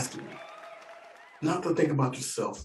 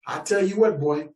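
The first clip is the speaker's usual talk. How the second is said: drawn-out mock redneck drawl; slow, proud gun-owner boast; defiant redneck; 5 semitones higher, slower than usual. Rancher claiming his gun rights to the nephew, hammed-up drawl.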